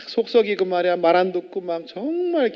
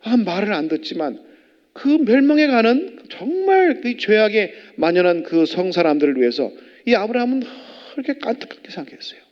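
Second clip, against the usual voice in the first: ordinary talk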